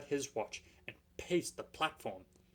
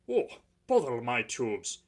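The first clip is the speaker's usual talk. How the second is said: panting; 8 dB louder than usual. Acted. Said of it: "he panted".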